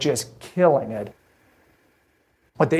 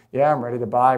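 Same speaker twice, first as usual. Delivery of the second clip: a matter-of-fact yes with a small rise; just go along with it, no excitement; neutral yes; 2 semitones lower, faster than usual. Shown as a demonstration. Customer agreeing to buy without much interest, neutral. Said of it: "That whole accent".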